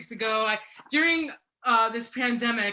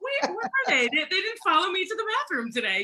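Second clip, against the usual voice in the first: mock panic; 8 semitones higher than usual. Mock panic over missing cats.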